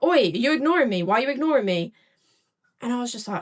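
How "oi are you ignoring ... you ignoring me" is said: raised, higher mock demand; imitated pestering shout. Stranger heckles a woman ignoring him, imitated pestering. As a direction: imitate a pest demanding attention. Retold man pestering her for attention.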